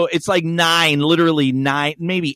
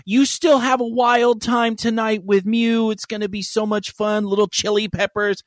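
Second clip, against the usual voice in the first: higher, mildly gushing; chirpy retold text; 4 semitones higher than usual. Friend texts about tonight's wild time, chirpy. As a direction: read it out like an eager friend.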